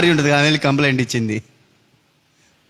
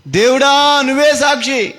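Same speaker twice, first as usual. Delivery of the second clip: dying plea; 8 semitones higher, slower than usual. Acted. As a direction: call on God as witness with last breath. Dying brother cries out to God. (చనిపోతున్న తమ్ముడి ఎత్తైన మొర)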